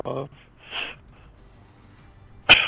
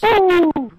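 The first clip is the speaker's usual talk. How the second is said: excited whoop; 9 dB louder than usual. Real, not acted. Excited cheer in game.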